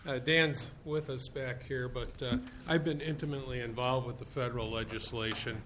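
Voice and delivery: blocked nose after surgery; talking through a blocked nose. Real, not acted. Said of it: "I'm sorry about the nose thing".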